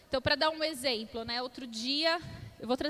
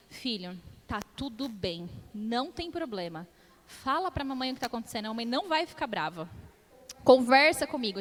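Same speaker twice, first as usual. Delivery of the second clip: tender reassurance. Retold or imitated. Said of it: "olhei nos olhos dele, sentei no sofá".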